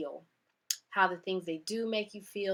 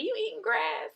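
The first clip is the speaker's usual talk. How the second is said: incredulous; 3 dB louder than usual. Retold or imitated. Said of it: "People are like".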